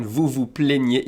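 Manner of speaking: "plaignez" with closed é vowels, slow; accent aigu demonstration. Shown as a demonstration. Teacher contrasting two verb forms, slow closed accent aigu sound. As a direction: draw out "plaignez" as play-nyay. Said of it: "E accent aigu".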